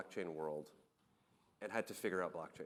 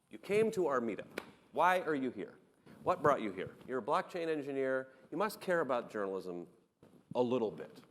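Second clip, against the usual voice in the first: higher, pressing retold challenge; insistent questioning; 4 semitones higher, 4 dB louder than usual. Founder challenges engineer on why he came, insistent questioning. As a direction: press him with louder, emphatic questions.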